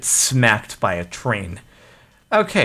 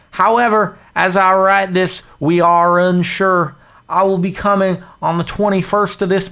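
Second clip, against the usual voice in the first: pompous dispatch in a put-on voice; letter read in character; 6 semitones higher than usual. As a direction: read it as a stiff railroad agent. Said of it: "what kind of accent to do".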